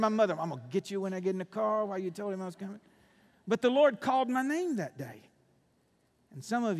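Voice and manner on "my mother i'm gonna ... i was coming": fast rant. Retold or imitated. Retells angry thoughts about mother.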